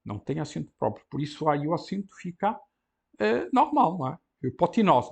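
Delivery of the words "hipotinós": "Hipotinós" run together, stress on the last syllable; read as one word. Shown as a demonstration. Teacher shows the enclitic read with its host, smooth. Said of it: "tem que ler tudo junto".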